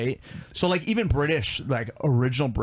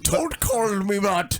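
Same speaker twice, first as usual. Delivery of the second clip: slow, high imitation of a British kid; mock British kid voice; British accent; 7 semitones higher, slower than usual. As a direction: exaggerate the British accent, drawing it out. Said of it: "he's talking in the British accent".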